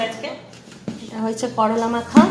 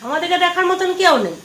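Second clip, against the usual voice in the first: rising, higher pitched frustrated lament; exasperated complaint; 5 semitones higher than usual. Real, not acted. Worn-out mother complains to her sons, exasperated. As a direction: pour out how fed up you are. Mother venting about caring for family.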